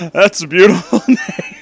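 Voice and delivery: high, loud, laughing read; laughing through words. Real, not acted. Reader voicing Dampé cracks up, laughing. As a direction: giggle the line out.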